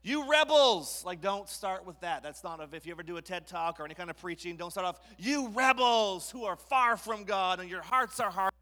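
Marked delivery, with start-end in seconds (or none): 0.0-1.0 high, loud, drawn-out accusation; hammed-up angry preacher shout; berating shout. Moses berates the crowd. 5.2-8.5 loud, raised fire-and-brimstone rebuke; hammed-up accusing preacher; berating shout. Moses berates crowd as bad opener.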